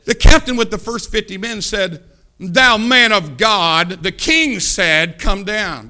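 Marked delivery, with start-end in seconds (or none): 2.4-5.9 loud, drawn-out, haughty address; derogatory. Acted. Captain summoning Elijah for the king, derogatory. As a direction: talk down to him, slowly and loudly. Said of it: "he said it in a derogatory tone".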